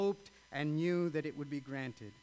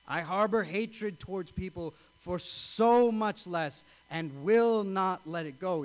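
louder and higher, pressing the admission; building confession; 3 semitones higher, 7 dB louder than usual. Acted. Preacher voicing the congregation's confession, loud and higher. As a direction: let it swell into a loud, higher cry.

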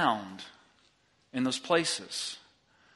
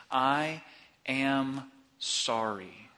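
heartfelt apology; much slower than usual. Shown as a demonstration. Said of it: "It may sound like this".

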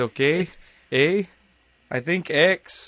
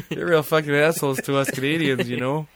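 mock Canadian listener. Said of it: "They were like".

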